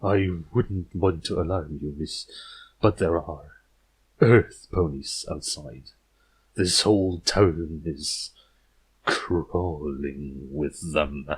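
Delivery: a lightly thickened, gurgling creepy author, slow and low; thick gurgling voice. Acted. Uneasy horror author warning the princess, slow thick gurgle. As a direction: let the words gurgle a little as you warn her. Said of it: "He spoke up in a thick voice, with a slight gurgling undertone".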